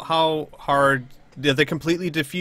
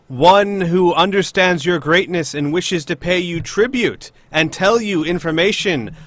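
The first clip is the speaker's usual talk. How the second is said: yelling; 4 semitones higher, 5 dB louder than usual. Acted. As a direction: call it out to the monster in the dark. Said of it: "And with as loud as I can".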